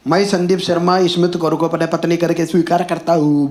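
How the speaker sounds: lightly imitated Marathi accent, rattled off evenly; Marathi-accented Hindi. Registrar dictating the wedding oath, imitated Marathi accent. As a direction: mimic a Marathi official's Hindi, run the oath together. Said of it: "वो मराठी आदमी था, उसने अपने हिसाब से हिंदी लिखी थी".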